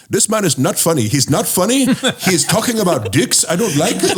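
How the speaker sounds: put-on angry drunk heckler in an Indian accent. Heckler complaining about Brendan's show, in an imitated Indian accent. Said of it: "he had this Indian accent".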